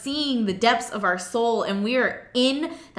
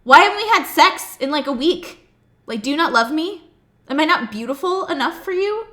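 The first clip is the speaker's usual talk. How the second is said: louder, higher accusing questions; nagging wife; 3 semitones higher, 6 dB louder than usual. Retold or imitated. Wife nagging husband about sex, loud and accusing. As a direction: press him with hurt complaints. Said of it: "had I rolled over and said".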